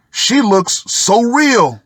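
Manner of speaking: amazed colleagues. Retold or imitated. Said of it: "they told me".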